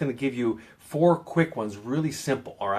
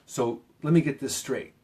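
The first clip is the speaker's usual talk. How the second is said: firm, deliberate challenge; assertive, emphatic. Shown as a demonstration. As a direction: say it with some emphasis, not wishy-washy. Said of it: "you say it with some emphasis".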